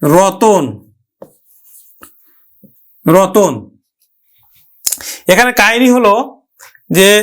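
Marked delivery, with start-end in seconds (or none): 0.0-3.5 slow, clear ro-ton; রতন pronounced carefully as "rotton"; careful word demo. Shown as a demonstration. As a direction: say রতন slowly, ো sound on the middle অ. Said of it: "আমি লিখলাম".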